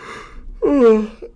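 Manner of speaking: long tired yawn; yawning sigh. Real, not acted. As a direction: let out a sleepy yawn. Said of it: "So I keep yawning".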